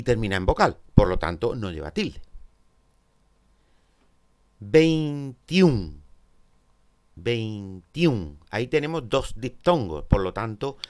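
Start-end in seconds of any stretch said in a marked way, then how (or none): 4.6-8.4 "Veintiún" in two drawn-out beats, "vein" then "tiún"; "Veintiún" divided as "vein-tiún"; split into syllables. Shown as a demonstration. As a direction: say "Veintiún" syllable by syllable, each diphthong in one beat. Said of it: "la palabra tiene dos sílabas".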